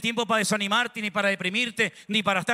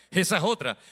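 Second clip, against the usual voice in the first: laughing repeat. Real, not acted. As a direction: say "esa es otra" through a chuckle.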